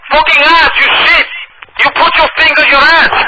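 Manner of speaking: put-on high, loud Dominican accent shouting in broken English. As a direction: yell furiously in a Dominican accent. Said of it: "I'll be talking in broken English".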